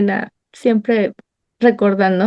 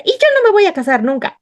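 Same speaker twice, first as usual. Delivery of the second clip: put-on defiant teen; 10 semitones higher, faster than usual. Defiant teen self quoted.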